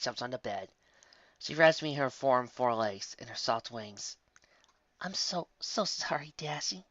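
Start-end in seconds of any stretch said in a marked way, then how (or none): 5.0-6.8 slow, soothing apology from a mother; tender coo. Acted. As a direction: coo it gently, drawing the words out. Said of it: "coos Mommy".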